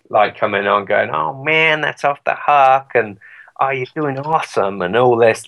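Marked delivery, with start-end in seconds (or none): 1.1-2.9 laid-back cool band-member brag, pitched up; cool American band guy. Retold or imitated. Imitating cool bands on a game shout-out, cool American hype. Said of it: "cool, like, North Americans from bands". 3.6-4.8 lightly mimicked cool musician praise, a bit higher; cool American band guy. Imitating bands praising the player, cool American hype. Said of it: "like, sounding really cool".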